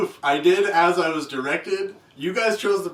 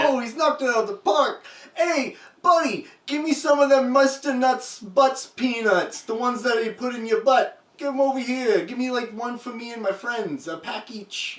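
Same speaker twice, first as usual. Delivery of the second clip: baseball fan; 4 semitones higher than usual. Pretend. Acted baseball fan calling out.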